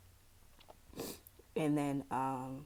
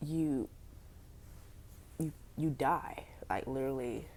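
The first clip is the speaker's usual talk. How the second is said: whispering. Real, not acted. Sad story of missing son.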